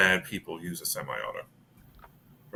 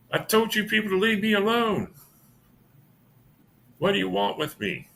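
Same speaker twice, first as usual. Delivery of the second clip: put-on old woman voice; 11 semitones higher than usual.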